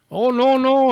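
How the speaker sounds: very high mock Asian accent; thick Asian accent. Agent denying he is from Texas, high mock Asian accent. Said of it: "his accent was so thick".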